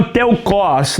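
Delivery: teukos with the stress on the last syllable, teu-KOS; pronunciation demo; stress on the end. Shown as a demonstration. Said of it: "a sílaba forte é no final".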